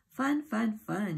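grinning, bouncing with glee; excited. A narrator's reading. Jumping Jack showing off his house, excitedly. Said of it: "he grinned excitedly".

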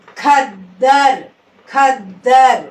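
ఖద్దర్ slow with ద్ద held and pressed; ఖద్దర్ with a long, firm double ద్ద; pressed double letter. Shown as a demonstration. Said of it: "నొక్కి పలకాలి".

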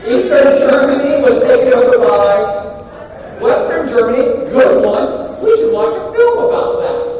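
loud, worked-up exclamation; excited outburst. Real, not acted. Lecturer rewards a student's Germany answer, excited and loud. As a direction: burst out loudly at a great answer. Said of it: "Sorry, got my pacemaker".

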